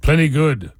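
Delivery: mock movie-chief voice; short line as a caricature Western chief; old Western chief. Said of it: "chief voice would be".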